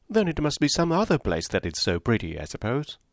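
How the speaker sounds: high, breathless society gossip; chattering Mrs Palmer. Acted. Mrs Palmer prattling to Eleanor and Marianne, high and chirpy. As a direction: prattle on brightly without pausing.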